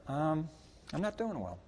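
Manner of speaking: subdued sad reply; quiet downcast reply. Retold or imitated. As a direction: mumble it like someone having a rough day. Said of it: "I'd walk up there".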